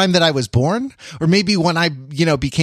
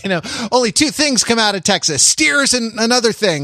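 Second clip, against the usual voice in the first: imitating drill sergeant; 5 semitones higher than usual. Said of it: "He starts saying".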